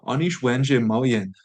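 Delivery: Anish Wenjie Mo Yin said clearly, each word separate; teacher models Anish Wenjie Mo Yin; model sentence. Shown as a demonstration. Teacher reads the full sentence aloud to learners.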